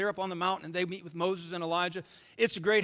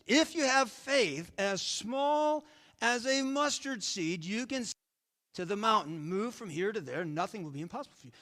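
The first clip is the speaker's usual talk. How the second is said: slow, emphatic reading. Shown as a demonstration. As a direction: read the verse slowly, weighing each word. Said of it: "Jesus said".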